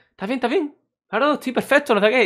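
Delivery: high mock concerned voices; concerned crowd. Crowd checking on fainted lifeguard, high mock concern. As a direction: voice the worried onlookers.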